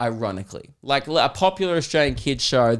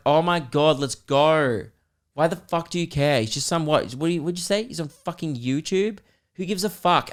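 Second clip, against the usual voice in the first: having a go; 2 semitones higher than usual. Acted. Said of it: "she started having a go".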